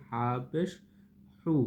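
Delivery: h of 'হা' and 'হু' from the end of the throat. Shown as a demonstration. Teacher models ha pesh, the h made in the throat. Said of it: "হা হলকের শেষ ভাগ থেকে উচ্চারণ হবে".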